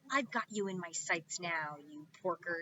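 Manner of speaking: a touch of cackling witch; witch gloating. Acted. Witch Gritch taunting the pigs from overhead, gloating. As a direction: gloat like a witch on her broom. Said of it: "she cackled".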